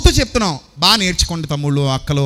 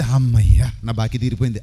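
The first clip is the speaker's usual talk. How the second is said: lower, relieved "అమ్మయ్యా"; happy relief, voiced lower; relieved sigh of joy; 8 semitones lower than usual. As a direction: breathe out relief. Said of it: "ఎప్పుడు వస్తుంది".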